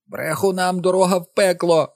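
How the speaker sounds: high loud shrieking mother; mother screaming at Bobby; screeching Mrs Dulin. A narrator's reading. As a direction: screech the curse. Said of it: "заверещала Мері Дулін".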